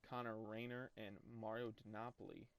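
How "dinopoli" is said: "Dinopoli" with stressed NAH in the middle; pronunciation attempt. Real, not acted. Gamer reading out a player's name, "Dinopoli" as dih-NAH-puh-lee. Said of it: "however you wanna say it".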